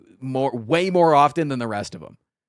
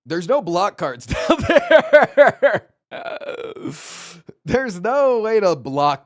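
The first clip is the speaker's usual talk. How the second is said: laughing disbelief; 7 semitones higher, 7 dB louder, slower than usual. Real, not acted.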